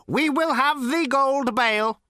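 slow, patient machine voice; patient robot. A narrator's reading. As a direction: explain it with cold patience. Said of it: "repeated the robot patiently".

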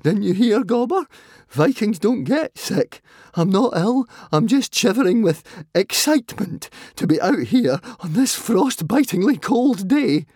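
high-pitched sarcastic mimicry. A narrator's reading. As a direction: throw the boast back bitterly, pitched high. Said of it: "Fishlegs laughed sarcastically".

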